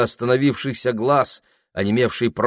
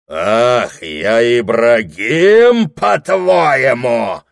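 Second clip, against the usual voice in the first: громко и медленно, нажим на Ибрагим; вскипи от обиды; злая насмешка; 6 dB louder, much slower than usual. Acted. Дьякон вскипает. (дьякон громко передразнивает обвинение)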